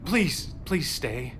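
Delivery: holding on to a miracle; tender desperate plea; pleading. Acted. Begging her to stay.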